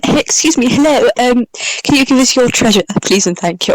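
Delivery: put-on posh English accent. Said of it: "posh English accent".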